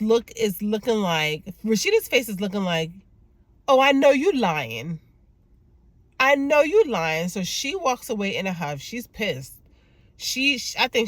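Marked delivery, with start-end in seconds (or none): 3.7-7.3 high, emphatic call-out of a liar; acted disbelief. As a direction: voice a suspicious wife who isn't buying it. Voicing wife's suspicious look.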